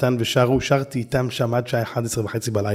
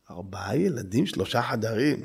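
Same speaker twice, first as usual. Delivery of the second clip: incredulous salesman; 4 semitones lower, 6 dB quieter than usual. Retold or imitated.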